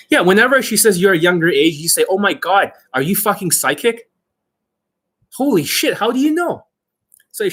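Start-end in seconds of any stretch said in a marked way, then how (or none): none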